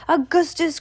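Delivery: high call, falling at the end; crying out. A narrator's reading. Father cries out to his son, high call. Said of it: "cried Mister Gloop".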